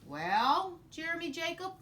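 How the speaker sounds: high, loud pirate greeting. Acted. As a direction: greet the boy like a captain. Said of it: "he said".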